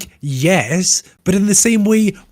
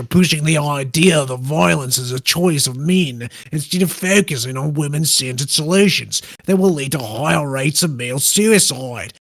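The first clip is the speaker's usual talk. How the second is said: put-on Australian accent. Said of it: "Do it possibly in an Australian accent".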